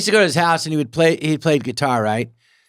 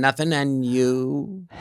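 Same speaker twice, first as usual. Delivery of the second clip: put-on deadpan old movie reply; much slower than usual. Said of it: "talk like that so fast".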